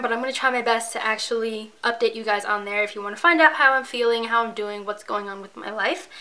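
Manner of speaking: breathless, tired talking; out of breath, exhausted. Real, not acted.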